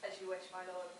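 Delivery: soft servant reply; bow and answer softly. Acted. Servant answers lord quietly.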